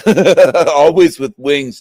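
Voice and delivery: slow mock ad line. Joking about the bloody Jesus picture, slow mock ad slogan. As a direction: say it slowly like a pad commercial. Maxi pad joke.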